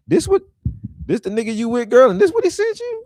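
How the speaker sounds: put-on high, loud, disbelieving squeal of a girlfriend; incredulous girlfriend. A friend grilling a girl about her man's text, high incredulous shriek. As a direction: shriek it like the friend who can't believe the text.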